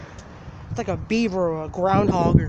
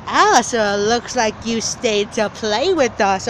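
slow, eerie taunt, lightly voiced; creepy actor voice; slower than usual. Scare actor taunting the visitors, slow and eerie. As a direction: draw it out like a haunted house actor. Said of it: "she was like".

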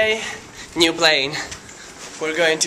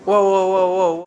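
amazed; 3 semitones higher, 5 dB louder than usual. Real, not acted. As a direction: caught off guard by the view. Reacting to the sky.

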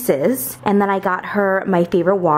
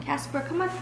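firm dog commands; 2 semitones higher, 8 dB quieter, slower than usual. Real, not acted. Training dogs to sit and stay.

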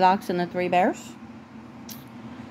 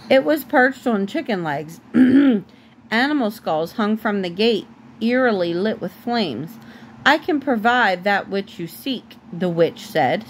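measured storybook reading, clearly phrased; story narration. A narrator's reading. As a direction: read a fairy tale aloud to a child.

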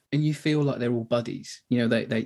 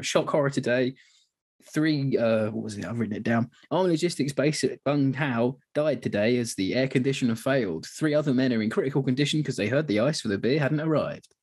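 mock news flash. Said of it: "news flash thing".

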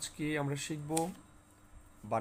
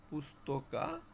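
slow correct version; 2 semitones higher, 4 dB quieter, much slower than usual. Shown as a demonstration. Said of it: "right উচ্চারণ হবে হচ্ছে".

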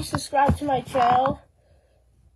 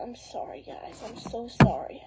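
whispering; 3 semitones lower, 7 dB quieter than usual. Real, not acted. Sick kid apologising to viewers.

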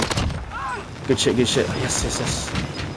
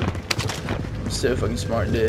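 slow, softer whispered mock brag; 5 semitones lower, 8 dB quieter, much slower than usual. Gamer mocks the cheater's brag in slow whisper. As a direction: breathe it out slowly, sneering at the cheater.

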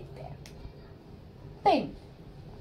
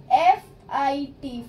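slow spelling; 5 dB louder, slower than usual. Shown as a demonstration. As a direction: spell बी आई एन slowly, letter by letter. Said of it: "fit". (अक्षर-अक्षर धीरे बोलना)

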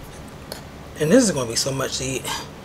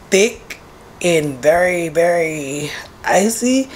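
whispered very icy; slower than usual. Real, not acted.

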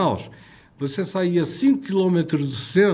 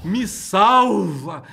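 retold cry for help; 5 semitones higher, much slower than usual. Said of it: "E gritava sozinho".

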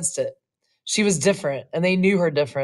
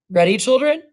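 bright teacher call; 7 semitones higher, 5 dB louder than usual. A narrator's reading. Teacher calls the class.

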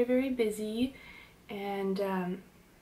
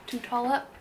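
puzzled self-correcting repeat; questioning own words; 3 semitones higher than usual. Real, not acted. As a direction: repeat it, doubting the phrase. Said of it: "Good English, Allison".

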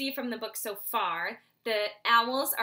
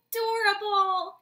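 sighed; 10 semitones higher, 8 dB louder than usual. Acted. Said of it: "Soren's mother sighed".

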